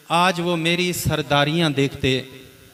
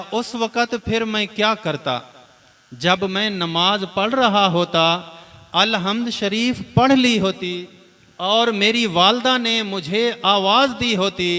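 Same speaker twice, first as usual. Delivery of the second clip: raised, higher preaching voice; impassioned preaching; 3 semitones higher than usual. Acted. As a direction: preach it with rising fervour.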